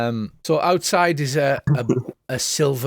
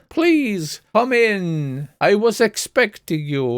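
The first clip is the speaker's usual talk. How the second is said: high, drawn-out fortune-teller voice; Madame Vastra; 8 semitones higher, slower than usual. Acted. Seer greets visiting heroes, theatrical and drawn out. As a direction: stretch the welcome out in a put-on, higher voice. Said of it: "pull me ve-, best Madame Vastra".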